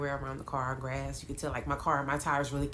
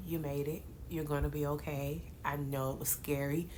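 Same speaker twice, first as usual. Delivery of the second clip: soft reassuring friend; gently consoling, voice dropped; 5 dB quieter than usual. Retold or imitated. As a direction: comfort her after the scare. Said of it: "she consoles me".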